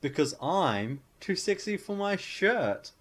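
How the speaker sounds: slow, high, loud seductive croon; sultry troll. Retold or imitated. Troll to the Billy Goat, slow and seductive. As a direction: sing it out like a vain troll. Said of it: "he's all like".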